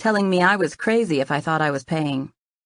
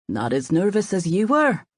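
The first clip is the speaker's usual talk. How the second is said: put-on Irish accent. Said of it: "lapsing back into the accent".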